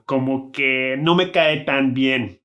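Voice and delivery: soft "como", rising tune, stress on "que"; "Como que no me cae tan bien" slow, soft como then stressed que; tentative intonation. Shown as a demonstration. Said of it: "the como is quite soft ... emphasis is on the que".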